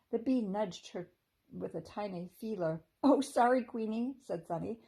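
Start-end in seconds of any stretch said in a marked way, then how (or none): 3.0-4.2 surprised. A narrator's reading. Sunny startled by bee.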